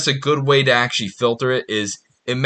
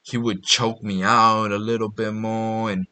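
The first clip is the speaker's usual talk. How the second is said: soft, slow confiding girl voice, barely put on; a hint of a girl confessing quietly; softly mimicking a girlfriend's complaint; lightly imitated girl; 2 semitones lower, 5 dB quieter than usual. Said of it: "this girl's like".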